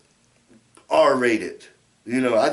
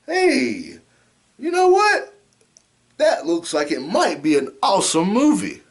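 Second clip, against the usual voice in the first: excited. Retold or imitated. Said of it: "I'm like".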